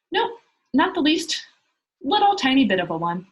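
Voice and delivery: put-on a child's happy boast; happily. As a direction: proudly insist she has no parents at all. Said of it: "said Pippi happily".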